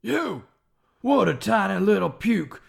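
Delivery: lightly voiced drill sergeant. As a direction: berate the recruit like a sergeant. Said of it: "Full Metal Jacket parody".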